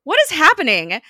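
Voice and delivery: high, loud mock outburst; hammed-up viewer reaction; bewildered shock. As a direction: exclaim it in baffled disbelief.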